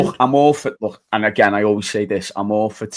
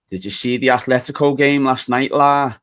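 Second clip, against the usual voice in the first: a bad schoolboy Scouse accent, pitched higher; imitating a bad Scouse accent; 4 semitones higher, 4 dB louder than usual. Teacher mimicking a pupil's clumsy Scouse accent. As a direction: do a kid's forced Scouse accent, slightly raised. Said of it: "in the worst Scouse accent you've ever heard".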